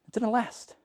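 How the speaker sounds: soft, sorrowful echo; preacher lamenting the revival ended; hushed sad repeat. Real, not acted. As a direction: let it fall away softly.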